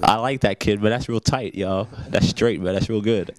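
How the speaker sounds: put-on American accent with slangy delivery. Shown as a demonstration. Interviewer showing the rapper an American accent. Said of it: "That's my American accent".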